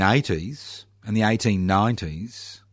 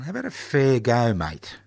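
ocker Aussie; 3 semitones higher than usual. Shown as a demonstration. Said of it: "You like that?".

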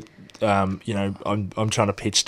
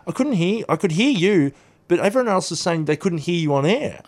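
caller's remark; 8 semitones higher than usual. Retold or imitated. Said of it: "he said".

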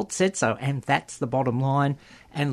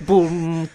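punchy vocal drum hit; louder mimicked boom of a drum; mock rimshot; 3 semitones higher, 5 dB louder than usual. Host punctuates own fringe pun, mock rimshot.

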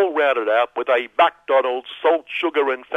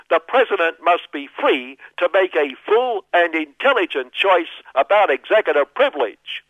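mock official; 4 semitones higher than usual. Quoting spokesperson in put-on voice.

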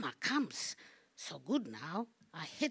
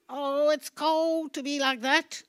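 high pained lament; 7 semitones higher, 7 dB louder than usual. Acted. Armless statue laments.

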